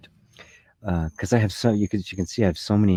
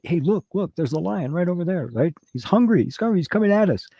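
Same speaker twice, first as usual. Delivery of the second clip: high, urgent warning about a lion; urgent alarm; 10 semitones higher than usual. Retold or imitated. Urging someone who won't listen, high alarmed warning. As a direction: pitch it way up, frantic to be heard.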